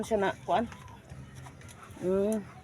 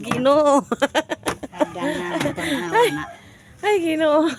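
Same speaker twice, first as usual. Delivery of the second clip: loud, high cries through giggles; laughing exclamation; 6 semitones higher, 5 dB louder than usual. Real, not acted. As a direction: exclaim helplessly between bursts of laughter. Laughing fit while climbing.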